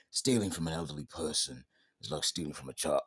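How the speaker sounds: a light impression of a stern action star; Statham voice. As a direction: say it like a deadpan action hero, only lightly put on. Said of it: "should I do the Statham voice?".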